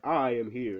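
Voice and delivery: lightly voiced booming hero announcement; a hint of a grand hero's arrival; mock heroic entrance. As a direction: announce yourself like a hero, half in earnest. All Might's entrance line repeated.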